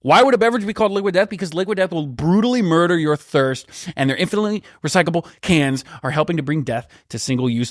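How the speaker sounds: rhetorical pitch, starting high and fast; hammed-up sponsor copy, hitting the violent words; ad read. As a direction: sell the drink with mock-serious punch.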